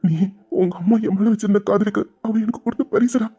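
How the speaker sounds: put-on cherish the baby, close to happy tears; tearful tenderness. New father to his baby, moved and tender.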